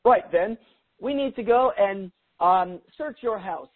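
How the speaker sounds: put-on a half-hearted British accent that drifts Australian; a lightly put-on British accent, bossy, with no real effort; mock British accent, playful; terrible British accent. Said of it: "a terrible British accent".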